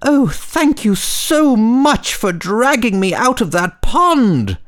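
very high grateful little voice; squeaky high tiny star. Acted. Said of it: "says the star".

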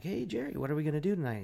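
"Hey, Jerry" jumps way up high; eager greeting. Retold or imitated. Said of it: "I'm like".

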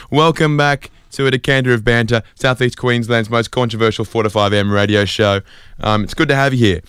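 cheesy breakfast-radio announcer read; host welcoming listeners to his early-morning show. Acted. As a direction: sell it like a tiny community radio host.

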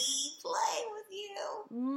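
slow, drawn-out breathy whisper; a slow, eager whisper to the big red button; creepy whisper. Retold or imitated. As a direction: whisper it like a kid eyeing a forbidden button. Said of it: "And he's like".

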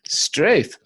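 mock Aussie exclamation; Australian accent. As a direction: toss it out in a put-on Australian accent. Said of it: "Australian accent".

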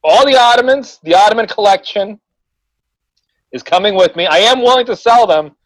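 playful fake ad read; mock sales pitch. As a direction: hawk the ottomans like a pitchman.

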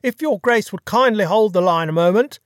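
polite, deferential manservant; lightly voiced correct English butler. A narrator's reading. Butler Bunter on the phone.

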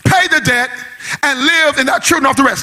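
sung, tuneful preaching over the organ; whooping preacher. Acted. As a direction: chant the story like a black church whoop. Preacher whoops the Bible story.

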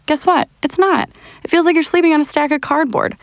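emphatic. Acted. Mocking rival mattresses.

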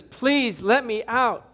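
sobbing beg. Acted. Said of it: "Great sobs shook his skeleton frame as he begged".

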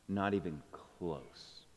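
slow, hushed admission; whispering a secret. Real, not acted. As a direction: let it barely out, slowly. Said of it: "but don't tell anyone".

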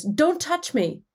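high, slow, pleading don't touch me; a retold young woman's scared plea, pitched high; frightened cry. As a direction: pull back from his hand in alarm. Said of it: "she cries".

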